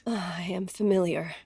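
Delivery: nervous whispered admission. Acted. Secretary whispering her answer to the widow. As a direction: breathe it out almost soundlessly.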